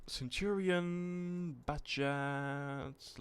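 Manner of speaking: slow, high, stretched-out announcing; drawn-out announcer call. Pretend. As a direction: call the name out like a ring announcer. Drawn-out tank name call.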